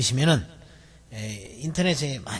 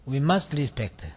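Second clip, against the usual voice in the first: slow model reading; much slower than usual. Shown as a demonstration. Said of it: "teacher models chunk again".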